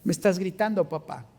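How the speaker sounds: put-on a child hurt, trailing down to papá; hurt child's tone. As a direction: say it so the father feels bad. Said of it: "en un tono que me hace sentir mal".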